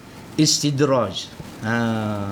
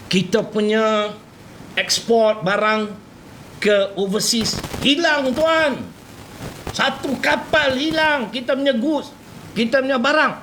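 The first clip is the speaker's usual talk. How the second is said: raised, urgent voice; alarmed report; 3 semitones higher than usual. Acted. Worker phoning the boss about the lost ship, urgent and raised. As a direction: blurt out the bad news to the boss.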